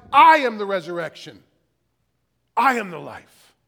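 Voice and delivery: loud declaration, landing hard on each opening "I"; emphatic proclamation. Acted. Preacher voicing Jesus's reply to Martha, loud proclamation. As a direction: proclaim it forcefully, with a pause between sentences.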